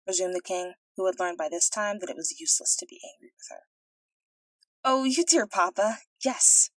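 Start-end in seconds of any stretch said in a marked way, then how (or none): 4.8-6.7 delighted princess. A narrator's reading. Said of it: "answered she".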